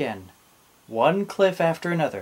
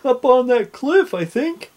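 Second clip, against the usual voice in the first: high, loud little pirate voice; Wavy; 11 semitones higher, 8 dB louder than usual. A narrator's reading. Pirate to captain about the crew, high voice. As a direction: answer pitched well up, eager. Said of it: "said Wavy".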